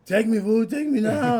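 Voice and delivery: high, loud pleading yell; imitating a desperate plea. Imitating friend begging a ride to bathroom, high yell. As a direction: beg like a kid who badly needs the bathroom. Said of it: "his voice started getting a little".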